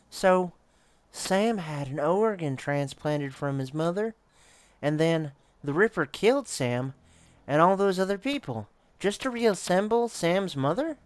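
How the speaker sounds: rising high in disbelief as the horror dawns; incredulous. Acted. Player realizing the Ripper rebuilt his mother, incredulous and high. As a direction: piece it together, voice climbing in shock. Player pieces together the grisly truth.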